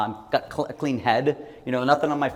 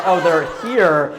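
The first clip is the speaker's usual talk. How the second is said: slow, higher and louder, half laughing; mock proud answer; 6 semitones higher, 10 dB louder, much slower than usual. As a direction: answer slowly, sure you found them. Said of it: "And I was like".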